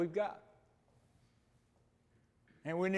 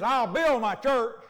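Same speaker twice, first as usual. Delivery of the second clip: slow, emphatic, stressing "build"; firm preaching voice; bold declaration; 3 semitones higher, 4 dB louder than usual. Shown as a demonstration. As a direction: proclaim it with weight. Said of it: "That's what I said in that still small voice".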